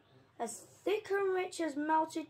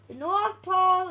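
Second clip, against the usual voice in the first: loud, higher, amazed; awed narration; 5 semitones higher, 10 dB louder than usual. A narrator's reading. Narrator marveling at the North Pole, amazed. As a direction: marvel at the sight.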